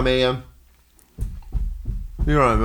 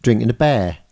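Norfolk accent. Shown as a demonstration. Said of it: "speak in a Norfolk accent".

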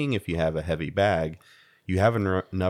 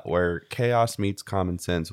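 slow slogan read; slower than usual. Acted. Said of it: "fade into me saying this".

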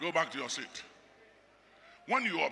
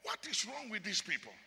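higher, louder indignant divine voice; voicing God; 8 semitones higher, 3 dB louder than usual. Preacher voicing God scolding the Israelites, higher. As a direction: speak as an exasperated God. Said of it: "And God said".

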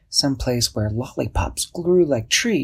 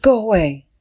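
scared go away; 11 semitones higher, 7 dB louder than usual. Acted. Frightened boy hiding.

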